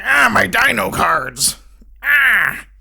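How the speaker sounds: gimmicky cartoon voice. Minor Yu-Gi-Oh character mourning his cards, gimmicky wail. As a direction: wail like a silly cartoon villain. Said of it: "He talks like that the whole time".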